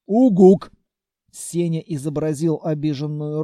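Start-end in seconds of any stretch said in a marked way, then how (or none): 0.1-0.7 loud little monster hoot; monster grunt. A narrator's reading. Senya the monster protests to his friends, loud creature hoot. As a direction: blurt it like a creature. Monster's one-word utterance.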